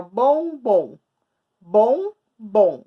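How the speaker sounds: "bom, bom" split into two loud, separate beats; syllable by syllable. Shown as a demonstration. Teacher showing pupils how to separate syllables, "bom, bom" in separate beats. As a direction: break "bom, bom" apart, each syllable punched. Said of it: "eu tô separando as sílabas".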